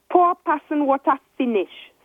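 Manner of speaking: snapping. Acted. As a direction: snap it out bitterly. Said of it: "snapped Concertina".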